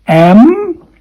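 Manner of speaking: "M" hummed high with lips closed; teacher's humming "M". Shown as a demonstration. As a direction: press lips together for "M". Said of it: "M with your lips closed".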